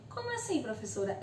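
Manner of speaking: a hint of a confused pupil asking; lightly voiced student, rising in surprise; student's question.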